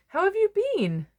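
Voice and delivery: bright punchline greeting; pun line. Acted. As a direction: pitch it up to land the bean pun. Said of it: "Get it?".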